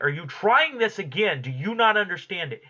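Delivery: a touch of angry disbelief; mock angry Jack. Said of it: "Jack is getting angry".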